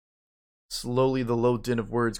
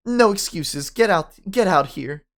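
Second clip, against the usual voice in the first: high, loud, slowed order; stern command; 6 semitones higher, 7 dB louder, slower than usual. Acted. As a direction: bark it out, no excuses. Principal orders student out.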